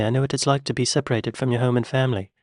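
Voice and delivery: put-on rushed British accent slipping to American on "family"; Kevin Costner. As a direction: rattle it off, losing the British on "family". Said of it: "he dropped the accent on the word family".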